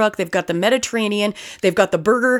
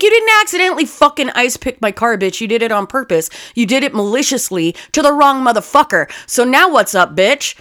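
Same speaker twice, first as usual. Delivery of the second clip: retold confrontation; 5 semitones higher than usual. Confronting the woman who keyed her car, angry. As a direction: square up and call her out. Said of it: "I was like".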